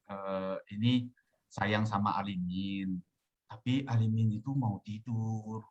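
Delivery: low, softening, soothing address; gentle coaxing. Shown as a demonstration. Talking to the inner self who won't sleep, gentle coaxing. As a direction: coax calmly, dropping pitch and easing off.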